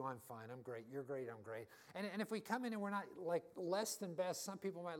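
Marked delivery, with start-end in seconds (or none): 0.0-1.7 mock polite replies. Churchgoers' fake cheerful replies.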